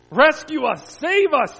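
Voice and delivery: high, loud acted cry for rescue; shrieked plea. A narrator's reading. Friends begging Jesus to save them, shrieked. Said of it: "they shrieked".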